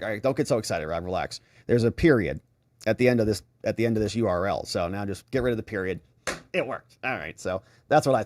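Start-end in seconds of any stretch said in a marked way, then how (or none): 0.0-6.0 calming himself. Retold or imitated. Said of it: "And I was like".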